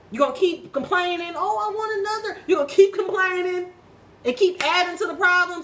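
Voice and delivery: loud, high, indignant questions; exasperated challenge. Real, not acted. Speaker confronting complainers about their problems, exasperated. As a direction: throw the question out hard and high.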